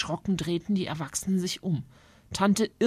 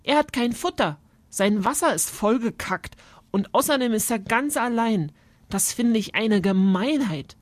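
a hint of an outraged child; understated young girl's indignation; lightly voiced indignant girl; 4 semitones higher, 3 dB louder than usual. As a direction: list the wrongs in a mildly protesting girl's voice.

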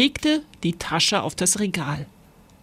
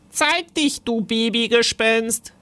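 leicht höher, neckender Ruf eines Gespensterjungen; Timon ruft neckend; 3 semitones higher than usual. Acted. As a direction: den kleinen Bruder aufziehen. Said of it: "rief Timon". (neckend rufend, leicht höhere Stimme)

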